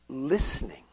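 near-whisper, very soft; whispered repeat. Acted. Preacher repeats the climber's key for emphasis, whispered. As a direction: let the word sink to a whisper.

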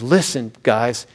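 hammed-up fed-up dad barking orders in the car; dad scolding the squabbling family on the drive to church, stern and rising; exasperated dad. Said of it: "Dad turns around and says".

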